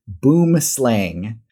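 "boom slang" read as two English words in a Midwestern accent; "boom slang" spelled out slowly, Midwestern accent. Shown as a demonstration. Showing his Midwestern accent, he reads "boom slang" slowly. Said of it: "how I would read it in English in my Midwestern accent".

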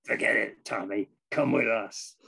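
roughly imitated New Jersey cousin; lightly voiced New Jersey longshoreman; bad New Jersey accent. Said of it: "forgive my bad accent".

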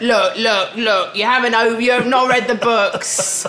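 imitating cross friend.

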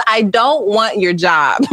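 high, whiny mock sobbing child; imitating Ella crying. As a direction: wail it like a five-year-old who was scolded. Mother imitates crying daughter Ella.

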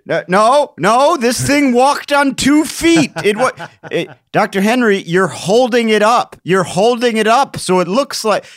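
high, loud, hammed-up scientists squabbling; mock outraged argument. Scientists quarrelling over fake iguanodon bones, mock outrage. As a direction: shout over each other in comic indignation.

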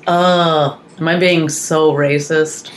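child's Indian accent, imitated, drawn out. Mother retelling daughter's joke, in a mock Indian accent. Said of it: "did an Indian accent".

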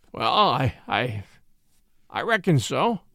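halting, helpless country driver; floundering. A narrator's reading. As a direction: stumble reluctantly into agreeing, with pauses. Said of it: "floundered the helpless Higgins".

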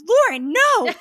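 high, loud mock protest; loud horrified refusal. Teenager told to go confront the stranger, horrified refusal. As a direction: push the pitch up and refuse in alarm.

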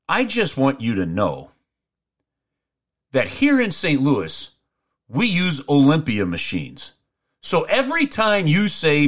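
slow, measured lecturing with long pauses; imitated officious fan, word by word; mock pedantic complaint. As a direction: spell out the correction slowly and solemnly.

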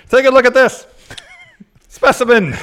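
high, loud barker, laughing; carnival barker. Pretend. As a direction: hype the freak show, cracking up.

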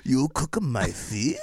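slow, incredulous chef voice; mock offended chef. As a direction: stretch it out in disbelief. Imagined sushi chef outraged.

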